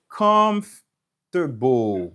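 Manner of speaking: comfortable with a long, punched COMF; stress on first syllable. Shown as a demonstration. Teacher showing Mark the accented syllable, first-syllable stress. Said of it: "se la w ap plis aksantye".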